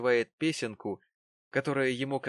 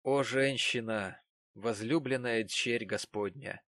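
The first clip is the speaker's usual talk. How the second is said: slow solemn preaching tone; solemn address. A narrator's reading. Narrator addressing the wronged woman, slow and solemn. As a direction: intone it like a blessing.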